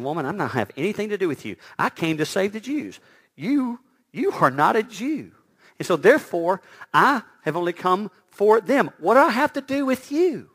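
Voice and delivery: Jesus sounding terse to the woman. Retold or imitated. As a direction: push her away curtly. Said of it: "it sounds like that Jesus is being terse".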